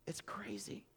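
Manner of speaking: hushed, amazed whisper. Real, not acted. Telling the church about the found wallet, whispered. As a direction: breathe it out like a secret. Aside after the wallet story.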